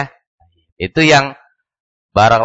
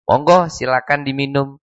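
genuinely inviting offer of a drink; sincere invitation; 2 semitones higher than usual. Shown as a demonstration. Teacher showing a genuine invitation to drink, sincere and polite. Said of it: "memang persilahkan yang benar-benar dipersilahkan".

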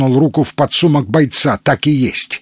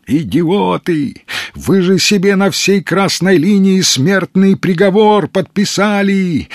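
shouting; 7 semitones higher than usual. A narrator's reading. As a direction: yell after the fleeing men. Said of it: "кричал Калантай".

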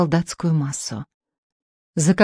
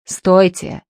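yelling; 4 dB louder than usual. Acted. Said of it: "вопил Потяшкин".

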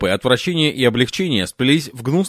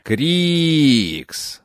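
furious hiss; 3 semitones higher than usual. Acted. Tiny furious woman hissing at the man who fled. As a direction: spit the name out like a cornered cat. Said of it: "прошипела она".

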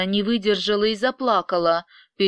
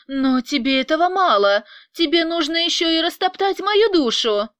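higher and louder, bitter accusation; rising anger, hurling blame; working herself up; 8 semitones higher, 4 dB louder than usual. Acted. Angelina accusing Vyacheslav of loving her pain, getting angry. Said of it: "начала заводиться Ангелина".

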